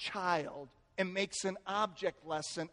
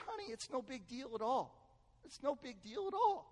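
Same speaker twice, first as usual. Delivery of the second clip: soft, higher-pitched reassurance; soothing; 5 semitones higher, 9 dB quieter than usual. Retold or imitated. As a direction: gently comfort your crying wife. Comforting crying wife.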